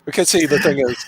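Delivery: light mock Canadian accent, eh. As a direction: tease in a hammed-up Canadian accent. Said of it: "You're doing Canadian accent".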